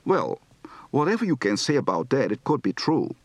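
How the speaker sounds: gentle Dutch accent; just a hint of Dutch vowels; lightly Dutch-accented English; light to medium Dutch accent. Shown as a demonstration. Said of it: "Light to medium accent".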